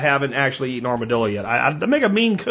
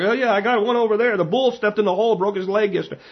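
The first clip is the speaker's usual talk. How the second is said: higher-pitched take on a Pennsylvania Dutch farmer; 6 semitones higher than usual. Retold or imitated. Farmer welcomes a groundhog hunter, imitated Pennsylvania Dutch accent. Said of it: "That's how they are. Like".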